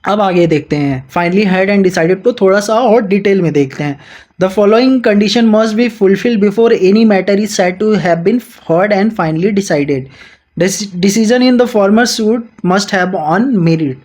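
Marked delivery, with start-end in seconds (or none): 4.4-14.0 slow, deliberate reading of the statute; measured textbook read-aloud; slow legal reading. Acted. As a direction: dictate each clause slowly to students. Reads the legal text aloud.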